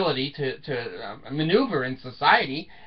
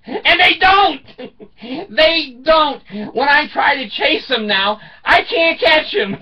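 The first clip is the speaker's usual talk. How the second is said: high and loud, broken up with laughter; laughing; 9 semitones higher, 6 dB louder than usual. Real, not acted. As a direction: laugh through it, cracking up at yourself. Laughing at his own story.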